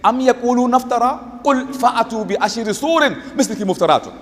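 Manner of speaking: rapid, fluent Arabic recitation; Quran recitation. Acted. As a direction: reel off the verse from memory.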